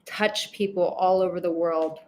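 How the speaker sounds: quiet grateful prayer. Real, not acted. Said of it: "let me just enjoy this and go".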